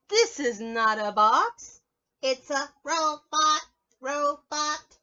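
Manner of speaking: loud, slow announcement; proud robot reveal. Acted.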